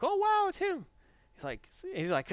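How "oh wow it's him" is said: much higher starstruck gasp of wonder; amazed crowd. Retold or imitated. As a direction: sound starstruck at seeing a celebrity. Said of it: "everyone's like".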